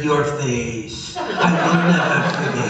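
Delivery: loud, hammed-up villain declaration; Khan. Guest as Khan grabbing Chekhov, hammed-up menace. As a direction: declaim it grandly, swelling on the second half. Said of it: "Khan grabbed him and said".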